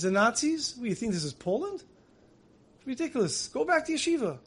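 high, disbelieving father brushing it off; incredulous scoff. Acted. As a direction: scoff it away, pitch climbing. Father scoffing at son's news.

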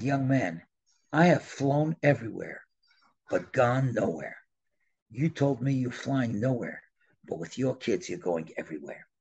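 grave, measured delivery sinking low; understated, weighty seriousness; very serious. Retold or imitated. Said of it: "he got very serious".

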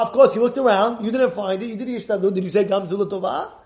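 usual speaking voice

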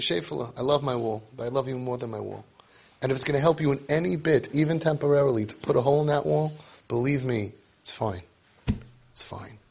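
tender parent. Retold or imitated. Parent telling the boy a hole in the wall is fine, tender and soft. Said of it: "He says".

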